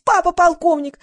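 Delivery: high, loud boastful squeal. A narrator's reading. Valya boasting about her father, squealing. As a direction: squeal it out in one burst. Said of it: "завизжала Валя".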